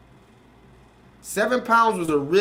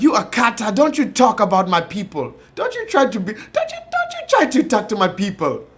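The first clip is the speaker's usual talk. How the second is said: scolding Nigerian voice; 4 dB louder than usual. Retold or imitated. Nigerians telling Will Smith off, mock Nigerian accent. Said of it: "the Nigerians was like".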